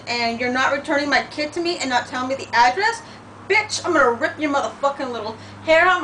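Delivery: half-voiced imagined outburst, mock fury; letting off a mock tirade at the mother, fast at the end; retelling a furious rant that stayed in her head. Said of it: "That's how I felt".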